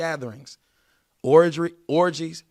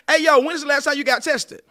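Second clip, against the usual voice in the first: loud, high question to a partner; asking a partner; 9 semitones higher, 6 dB louder than usual. Shown as a demonstration. Coaching viewers, acting out the question to a partner. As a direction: put the question straight to them. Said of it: "Here's some good questions".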